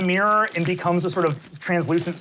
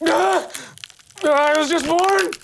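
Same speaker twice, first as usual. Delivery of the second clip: newborn monster cry; 10 semitones higher than usual. Acted. Gooey creature shrieking at its birth. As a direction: wail like a freshly born monster.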